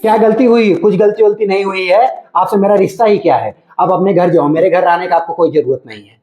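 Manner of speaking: curt, cross rebuff; angry. Acted. Son-in-law telling mother-in-law to go home, angry. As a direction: send her away with irritation. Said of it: "ऐसे गुस्सा मैं कभी नहीं देखा".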